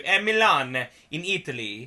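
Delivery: hammed-up Italian accent; exaggerated Italian accent. Telling the tour's route south, comic Italian accent. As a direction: lilt the place names in a mock Italian accent. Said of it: "I've done that accent".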